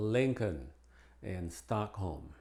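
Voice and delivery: "Lincoln" as "Linkun", "Stockholm" as "Stock-home"; "Lincoln" and "Stockholm" with the inner L unheard; silent L. Shown as a demonstration. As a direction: drop the later L in "Lincoln" and "Stockholm". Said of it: "no se pronuncia la L".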